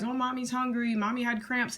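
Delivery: hammed-up mommy apology; high pleading excuse; mock apologetic mom. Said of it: "go back and apologize".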